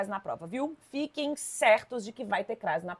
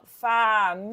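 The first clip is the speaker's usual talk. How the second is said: "família" drawn out as fa-mi-li-a; four separate syllables; slower than usual. Shown as a demonstration. Teacher showing the other separation, "família" in four slow beats. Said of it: "poderia ser separada assim".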